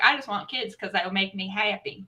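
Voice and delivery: a hint of a Southern accent. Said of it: "I don't mean to say that with a Southern accent".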